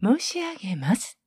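申し上げます slowly and deliberately; stress on 申し上げます. Shown as a demonstration. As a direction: draw out 申し上げます with care. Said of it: "ここ大事です".

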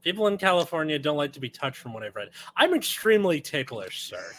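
ordinary talk, nothing marked

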